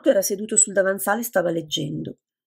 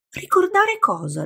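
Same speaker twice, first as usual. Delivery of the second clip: a slow, sharply higher irritated question; annoyed; 13 semitones higher than usual. A narrator's reading. Lydia answering the teasing young man, slow and annoyed. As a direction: snap back, exasperated. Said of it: "rispose Lydia seccata".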